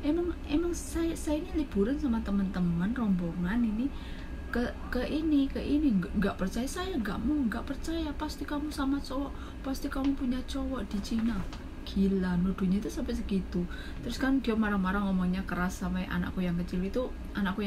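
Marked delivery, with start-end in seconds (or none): 0.0-11.4 mock suspicious boss. Boss's suspicion voiced in retelling.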